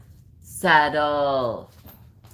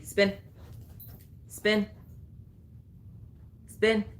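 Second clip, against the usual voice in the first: high bright "Spin" cue; high command cue; 8 semitones higher, 8 dB quieter, slower than usual. Real, not acted. Trainer cueing dog to spin, high. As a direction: chirp the trick cue up high.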